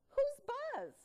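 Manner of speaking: bright high quiz question; asking the kids. Shown as a demonstration. Teacher quizzing the class about the story. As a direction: pitch it up to invite answers. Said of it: "I would say to the kids".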